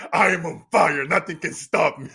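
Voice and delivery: loud retold boast, laughter close behind; mock bravado, punched out loud; fired up. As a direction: belt it out like a cocky younger self. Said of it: "I was just fired up".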